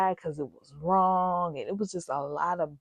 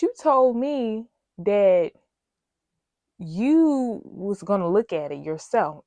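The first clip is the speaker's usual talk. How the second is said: angry retort; 5 dB louder than usual. Real, not acted. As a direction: lay into her point by point, voice raised.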